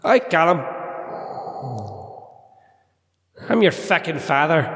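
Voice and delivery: Darth Vader voice. Acted. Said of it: "Is that Darth Parks".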